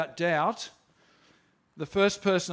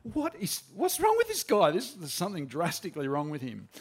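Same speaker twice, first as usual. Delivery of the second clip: startled disbelief. Retold or imitated. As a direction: sound baffled and alarmed. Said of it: "And I'm, like, going".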